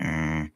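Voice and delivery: buzzing "brrrr"; imitated vibration closing in. Describing a creature getting closer, imitated violent vibration. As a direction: imitate an approaching rumble. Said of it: "getting closer and louder and more violent".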